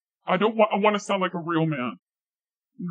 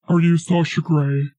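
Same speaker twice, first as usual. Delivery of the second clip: loud repeat; 6 dB louder than usual. Pretend. Repeating the question after "What?", loud and forceful. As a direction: ask it loudly.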